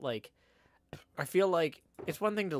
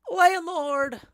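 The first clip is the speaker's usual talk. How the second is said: loud, high, drawn-out hail; calling out; 12 dB louder than usual. Acted. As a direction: summon the innkeeper across the room. Calls out to the landlord.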